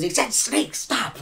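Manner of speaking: very high, loud goblin order to stop; a small goblin yelling at his pack; commanding goblin. Acted. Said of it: "he goes".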